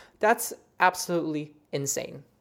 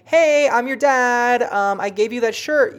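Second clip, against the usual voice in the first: spirit father; 7 semitones higher, 6 dB louder, slower than usual. Pretend. Voicing a spirit father's message.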